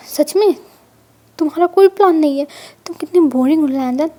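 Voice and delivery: loud playful scolding; mock outrage at his boring plan; loud, half-joking complaint; teasing outburst. Wing teasing husband as boring.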